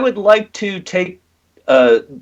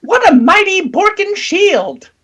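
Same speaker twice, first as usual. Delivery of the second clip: high, awed character voice; much higher awed praise; admiring character voice. Acted. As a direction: gush over the shield.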